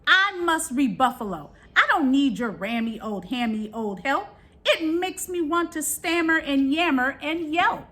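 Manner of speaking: lightly voiced gruff buffalo sending the ram away. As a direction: push the ram off with mild gruffness. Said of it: "he mooed in a manner so tuffalo".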